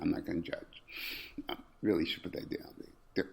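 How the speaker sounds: low, very soft murmur; hushed aside. Pretend. Host discreetly warning a dude while live, hushed aside. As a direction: keep it under your breath, nearly whispering.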